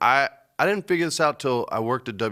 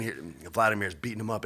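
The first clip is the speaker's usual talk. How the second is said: normal talking voice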